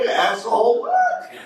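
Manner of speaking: high squeaky sneer rising to a squeal; mock a snotty thirteen-year-old; hammed-up teen squeal; bratty teen. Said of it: "They're like".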